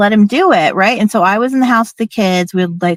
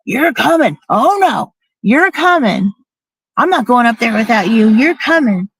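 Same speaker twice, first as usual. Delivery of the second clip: insistent retort; 3 semitones higher than usual. Retold or imitated. Arguing in the car about camping, retold insistent retort. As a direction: mimic a stubborn, swooping comeback. Retold argument, refusing to stay behind.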